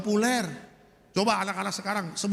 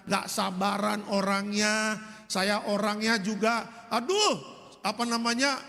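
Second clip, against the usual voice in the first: repentant prayer; 3 semitones lower than usual. Retold or imitated. Wife confesses her anger to God.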